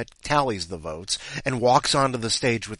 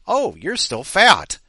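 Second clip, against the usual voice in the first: louder, higher, drawn-out verdict; mocking scale; 6 semitones higher, 7 dB louder, slower than usual. Scale judging the patient at a medical test, mocking. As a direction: announce it slowly as a tactless talking scale.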